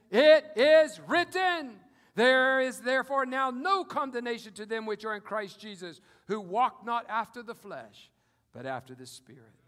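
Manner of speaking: loud, ringing scripture proclamation; bold rebuke. Acted. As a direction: declare it to Satan's face. Believer answering Satan loudly.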